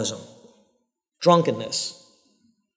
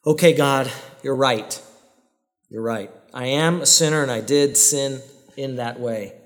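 sincere confession prayer. Shown as a demonstration. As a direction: pray it humbly, meaning every word. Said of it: "It should sound something like this".

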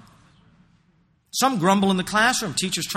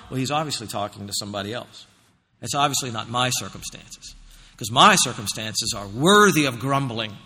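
lower, lightly mocked inner excuse; self-excusing; 5 semitones lower than usual. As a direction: voice the grumbler's private rationalizing. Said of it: "the lie that I circulate in my mind".

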